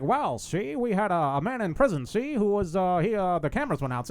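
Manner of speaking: put-on old-time radio announcer; lightly voiced transatlantic newsman; 1930s announcer voice. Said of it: "some guy who sounds like an announcer from the fucking thirties".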